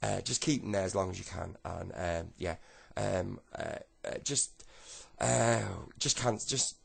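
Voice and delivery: loud, stumbling phone instructions; flustered official. Acted. Official telling the caller to adjourn the case, flustered.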